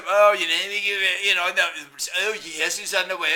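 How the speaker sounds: loud mock-British bluster; British impression. Mocking British team announcing the mission, hammed-up British accent. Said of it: "there's this stupid British".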